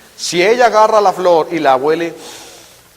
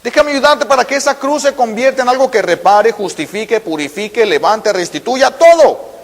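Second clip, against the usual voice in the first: pleading God; 5 semitones higher than usual. Acted. God offering help to the sinner, high and urgent. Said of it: "Dice Dios".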